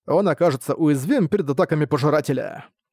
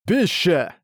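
joyful yell; 3 semitones higher than usual. Acted. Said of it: "радостный вопль Арка".

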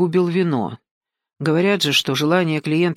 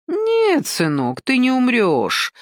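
gentle; 7 semitones higher, slower than usual. A narrator's reading. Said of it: "ласково проговорил собеседник".

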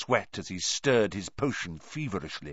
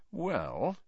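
softly lowered voice; whisper; 9 semitones higher, 6 dB quieter than usual. Acted. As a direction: drop the voice to a near whisper. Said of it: "lowering his voice to a whisper".

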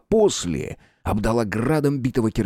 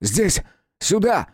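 higher shout back through the gunfire; shouted reply; 9 semitones higher, much slower than usual. A narrator's reading. Rudnev calling his partner over through gunfire, shouting. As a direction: call out so he finds you. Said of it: "крикнул ему в ответ".

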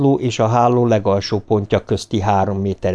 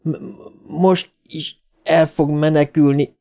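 higher, stammered outburst; raised, slowed, stuttering cry; mild mock bellow; 6 semitones higher than usual. A narrator's reading. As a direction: push it out past the stutter. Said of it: "harsogta Beverlyre".

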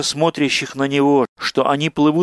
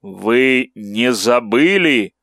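inhuman voice; much slower than usual. Acted. Monstrous former ratcatcher speaks.

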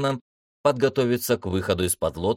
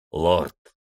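calling out; 3 semitones lower than usual. Acted. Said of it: "позвал капитан".

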